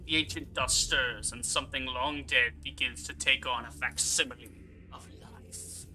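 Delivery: measured, solemn narrator read; story narration. Acted. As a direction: narrate it gravely, falling away at the end. Reads mission narration.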